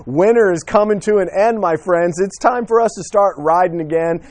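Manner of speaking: a real burst of joy at riding season; cheerful call out to my friends; excited. Real, not acted. Thrilled winter is ending, riding.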